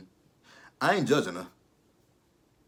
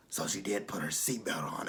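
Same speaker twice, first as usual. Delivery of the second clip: mimicking Angela; 6 dB quieter than usual. Mocking Angela's voice.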